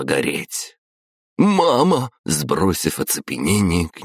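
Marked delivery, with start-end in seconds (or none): 1.4-2.1 высокий громкий окрик; броситься с криком к матери; отчаянный зов. A narrator's reading. Сын бросается к матери. (сын кричит горящей матери)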